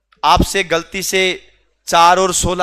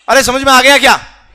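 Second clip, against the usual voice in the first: loud check; 4 semitones higher, 6 dB louder than usual. Real, not acted. Repeats call, no answer heard.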